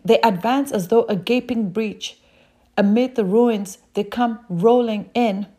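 rushed reading of the verse; reading too fast. Real, not acted. Preacher rushing a Job verse to his congregation, fast. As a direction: hurry through the scripture line. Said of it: "I'm sorry, I'm reading so fast".

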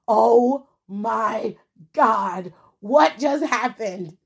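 slow, drawn-out disbelief; stunned viewer. Retold or imitated. Fan watching the upset, stunned and slow. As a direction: gasp it like you can't believe what you just saw. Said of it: "you're sitting here like".

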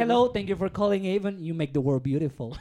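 lightly voiced phone agent greeting, half laughing; call center greeting. Ex-agent redoing the Avon opening for his friend, a mock cheerful greeting. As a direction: recite the scripted Avon greeting like a bored agent. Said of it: "Tira el opening".

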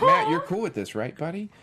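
high, loud, sing-song plea; butter him up, way up high; mock sweet ask. Director coaxing actor before a punch, high and loud.

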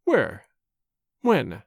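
low, mock-puzzled little questions; affected surprise. A narrator's reading. Chauvelin pretending ignorance to Marguerite, mock surprise. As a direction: play innocent, feigning bafflement. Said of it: "with affected surprise".

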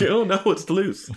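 very high frantic squeal; hammed-up alarm; mock panic. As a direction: squeal it in pretend terror. Joining in the imitated panic.

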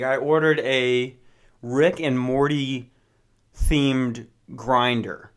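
Rick and Morty themed grinder drawn out slowly word by word; deliberate slow build to the punchline; slowed for effect. Shown as a demonstration. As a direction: let each word of the sentence land, slowly. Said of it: "listen to that sentence again".

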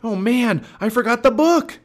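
high, loud exclamation of dismay; dismayed cry. Acted. Jack remembers the forgotten book, dismayed cry. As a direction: cry out at your own blunder.

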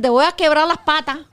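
amenaza cubana de madre. Retold or imitated. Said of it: "te dicen".

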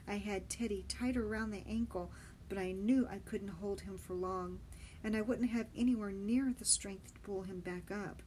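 usual speaking voice

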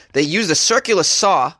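a touch of Boston in circular saw; accidental Boston accent. Real, not acted. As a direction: circular saw with a slipped Boston r-drop, sərkjlə sɔ. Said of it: "oh, I sounded so Boston there".

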